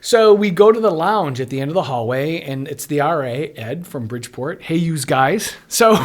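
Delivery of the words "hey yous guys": put-on light old-school Chicago accent; imitating the dorm advisor's Chicago accent, lightly done; Ed's Chicago accent. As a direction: toss off "yous guys" in a hint of a Chicago accent.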